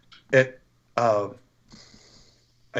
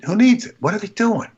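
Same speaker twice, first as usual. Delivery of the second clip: higher, louder incredulous cry; exasperated, louder, higher rant; exasperated outburst; 10 semitones higher, 6 dB louder than usual. Retold or imitated. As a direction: throw the question up in disbelief. Retold exasperation at the group.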